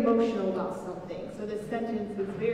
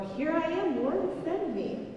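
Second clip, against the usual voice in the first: much higher, eager and lifted; excited; 7 semitones higher, slower than usual. Shown as a demonstration. Pastor showing children the exclamation mark, excited. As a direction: say it like you can't wait to go. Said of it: "it's excitement".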